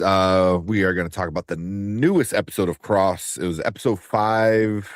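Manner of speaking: upbeat podcast host intro; show intro. Acted. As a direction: welcome the listeners, host style.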